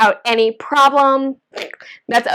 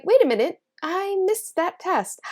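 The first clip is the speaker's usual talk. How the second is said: imitating viewer; 6 semitones higher, 5 dB quieter than usual. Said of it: "You might be going".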